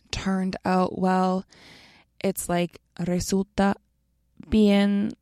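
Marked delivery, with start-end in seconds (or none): 0.1-1.5 turned out well drawn out slowly, each word apart; slow, spelled out. Shown as a demonstration. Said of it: "I also plan to read it slower".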